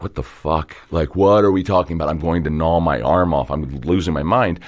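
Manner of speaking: imitating a listener trapped in a rambling story; exasperated listener. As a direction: act out losing your mind from boredom. Acted bored listener losing patience.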